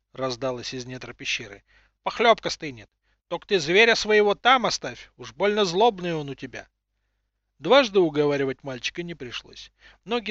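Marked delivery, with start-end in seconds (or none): 2.0-6.7 put-on high cracked old crone voice, calling; old woman voice. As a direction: call out like a grumbling grandma. Old woman calling boy back.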